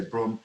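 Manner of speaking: Broham run together, close to "brawm"; chosen name pronunciation. Shown as a demonstration. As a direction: settle on Broham, said almost as one syllable. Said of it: "I'm gonna say Broham".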